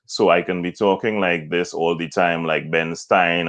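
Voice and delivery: unmodulated, level delivery; Ben Stein monotone. Shown as a demonstration. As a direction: keep the voice on one note. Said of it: "but not modulate".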